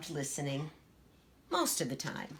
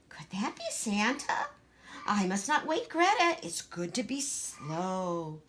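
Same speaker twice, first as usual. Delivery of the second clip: put-on small, timid little girl voice; Gracie, shy child; 3 semitones higher than usual. Shy little Gracie asking her sister, timid.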